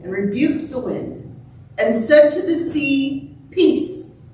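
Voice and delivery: measured, solemn scripture reading; gospel reading. A narrator's reading. Pastor reads the gospel to the congregation, measured reading. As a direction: read scripture out in unhurried, separated phrases.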